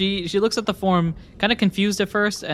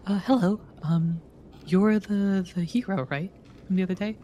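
real voice cracks on high notes; voice cracking; 4 semitones higher than usual. Real, not acted. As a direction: voice breaking mid-line. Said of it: "Sorry, my voice is cracking".

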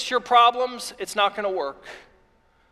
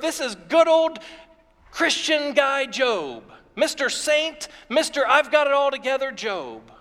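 higher, teasing mock-reverent titles; mock praise; 4 semitones higher than usual. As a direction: gently poke fun at "Mister Saint". Mock titles for righteous Job.

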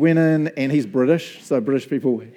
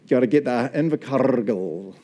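put-on Scottish accent; slower than usual. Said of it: "Too many R's down there".

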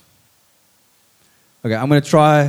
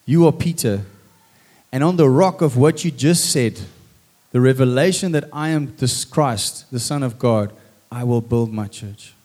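tender reveal. Shown as a demonstration. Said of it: "one final thought".

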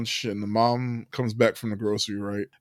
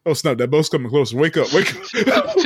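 alarmed mom waking family. Retold or imitated. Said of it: "Julie Roberts is like".

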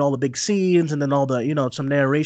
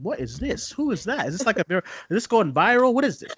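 confused; 6 semitones higher than usual. Retold or imitated. Retelling her own confusion.

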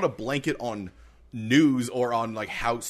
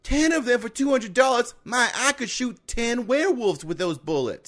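put-on high amazed kid voice; amazed kid, hammed up; child voice; 8 semitones higher than usual. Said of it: "sent us a recording".

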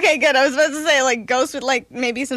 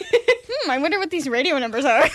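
oblivious musing. Retold or imitated. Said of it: "I was just like".

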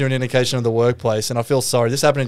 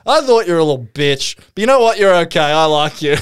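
drunk mock-insult turning friendly; 3 dB louder than usual. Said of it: "he's like".

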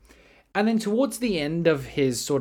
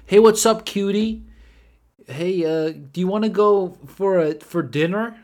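higher-pitched mock come-on; prankster pickup line; 6 semitones higher, 6 dB louder than usual. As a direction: imitate a cocky flirt, pitched up. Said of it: "he goes".

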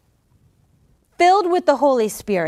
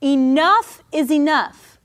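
firm, mild yell; 2 semitones higher, slower than usual. Shown as a demonstration. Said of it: "Just yell it today".

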